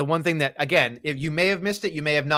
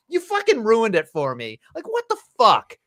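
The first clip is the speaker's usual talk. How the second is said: outraged fan; 6 semitones higher than usual. Retold or imitated. Fan complaining that Punk ruined the moment, much higher indignant cry. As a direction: let the outrage burst out. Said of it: "I just was like".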